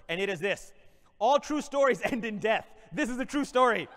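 mock-inspirational keynote voice; motivational speech. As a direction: address the crowd like a conference speaker.

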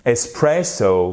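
slow Italian-American ESPRESSO; Italian-American accent. Shown as a demonstration. Teacher demonstrates the word's lilt, Italian-American accent. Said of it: "italien-américain".

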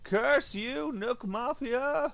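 mock tragic lament. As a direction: grieve like a soap opera villain. Mock tragic lament over dead dino.

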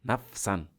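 নাফসান ending in "-an"; nasab ending. Shown as a demonstration. Teacher showing the nasab form, নাফসান with "-an". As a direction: say নাফসান in two parts, closing on "san". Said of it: "যদি নসব হয়".

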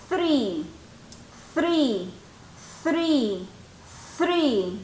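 Three repeated slowly with th on the teeth; model th sound. Shown as a demonstration. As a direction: demonstrate Three for practice. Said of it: "practique la pronunciación del número tres". (modelo de pronunciación: three)

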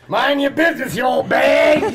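bratty daughter snapping back; mock yell. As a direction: daughter snapping at her mother, hammed-up yell. Acting out the strangling daughter.

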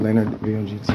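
V O G T said letter by letter; spelled out. Shown as a demonstration. A tenant unsure of a manager's surname, spelling it out. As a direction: spell out V O G T one letter at a time. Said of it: "I don't know how to pronounce his last name, so I say it like that".

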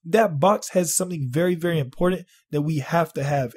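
high urgent imitation of his boss. Imitating his boss sending him into the closet, high urgent. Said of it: "She's like".

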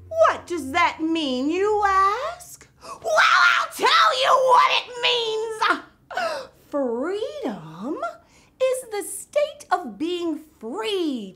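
Miss Vocab. Acted. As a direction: explain it like a giddy TV teacher. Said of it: "I'm Miss Vocab".

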